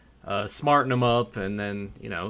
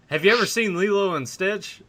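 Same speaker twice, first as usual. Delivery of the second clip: higher, eager fan question; imitating the fan; 7 semitones higher than usual. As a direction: play the overeager guy. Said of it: "he was like".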